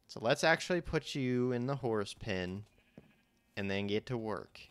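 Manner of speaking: slight Southern US accent. Real, not acted. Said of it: "I slip into southern accent".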